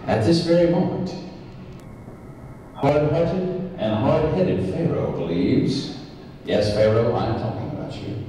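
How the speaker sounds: big boxing-match introduction; ring announcer. Acted. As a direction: hype up the villain to the crowd.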